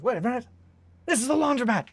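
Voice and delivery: very high, loud shocked squeal; cartoon quote. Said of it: "he goes".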